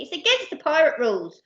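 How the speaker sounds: brisk, officious rule-quoting; protesting. Acted. Percy quoting pirate rules to captain, earnest protest. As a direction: object by reciting the rules. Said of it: "protested Percy".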